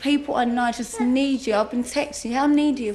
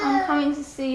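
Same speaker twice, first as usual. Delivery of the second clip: tearful; 2 semitones higher than usual. Real, not acted. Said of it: "I can't stop crying".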